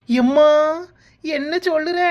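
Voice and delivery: loud gasp of a word, then high; astonished. Acted. Friend hears of Uma's pregnancy, astonished. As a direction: exclaim in high-pitched amazement.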